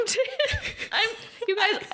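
high, choked-up voice breaking into laughter; tearful. Real, not acted. Moved co-host quoting a tender movie line, tearful. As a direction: get weepy and laugh through it. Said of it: "she's crying".

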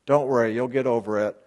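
hammed-up coddling of someone in pain; teacher mocking people who rush to comfort; mock soothing. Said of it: "not trying to say".

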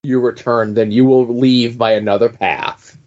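lightly acted portentous answer; ominous ferryman. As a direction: retell it as a measured, foreboding warning.

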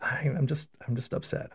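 put-on high, soft and fretful old lady, fading to a breathy whisper; imitating a troubled grandmother, voice up high and hushed; upset grandmother. Grandmother telling her priest after Mass she is upset, high and soft. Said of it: "she was a little upset".

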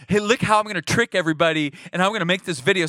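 fast, lightly voiced scheming prankster; sly trickster. Video faker boasts of tricking everyone, fast and smug. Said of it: "doing a video going".

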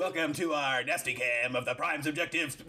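lightly voiced sleazy DJ welcome; hammed-up DJ voice. Host keeps the radio bit going with a put-on DJ voice. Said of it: "No, I'm not gonna stop".

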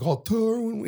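mock imitation, pitched high; mimicking. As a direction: mimic the man's manner. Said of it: "mimicking him now".

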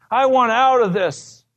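the plea breaks out, repeated harder; weeping plea. Retold or imitated. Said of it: "he started to weep and say".

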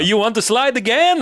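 high, hammed-up Italian-accented English; cartoon Italian accent with tacked-on vowels; mock Italian accent. Vineyard man offering another slide in English, mock Italian accent. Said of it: "he says in English".

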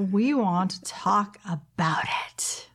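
slow hushed spooky whisper. Pretend. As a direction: whisper it like a ghost story. Spooky Halloween show opener.

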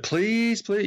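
put-on high, pleading kid; begging nephew. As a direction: beg like an eager nephew. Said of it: "he's like".

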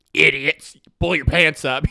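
put-on curmudgeon grumbling at kids; grumpy old man. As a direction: scold like a grumpy old manager. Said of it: "he's just like".

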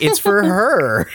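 a slow, silly hint of a thug; deadpan thug. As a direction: drag it out like a dumb henchman. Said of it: "And it's like".

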